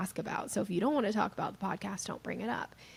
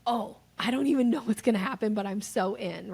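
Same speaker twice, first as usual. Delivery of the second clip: eager dog; 5 dB louder than usual. Retold or imitated. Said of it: "They are like".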